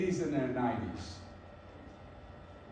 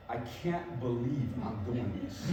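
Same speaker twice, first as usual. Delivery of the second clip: inner disbelief; 7 semitones lower, 8 dB quieter than usual. Retold or imitated. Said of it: "in my mind".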